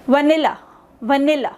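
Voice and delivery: "वनीला" with the middle "नी" brought out; "वनीला" said as an isolated model word, middle syllable strongest; stress on NIL. Shown as a demonstration. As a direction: lean on the नी in "वनीला". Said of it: "नील वाली जो sound है".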